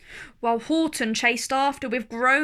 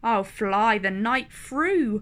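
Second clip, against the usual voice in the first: called back; 5 dB louder than usual. Acted. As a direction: shout it over the shoulder. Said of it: "he called back".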